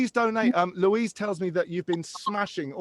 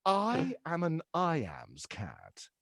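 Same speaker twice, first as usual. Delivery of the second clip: mumble imitating a singer; 8 dB quieter, slower than usual. Retold or imitated. Another prompt imitating a singer.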